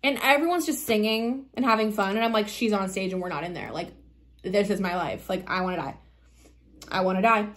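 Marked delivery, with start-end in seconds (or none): 2.5-7.5 low, soft, defeated retelling; a quiet, understated "my life is over"; mild despair. Retold or imitated. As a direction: sink low and soft, hopeless. Retelling her despair while outside.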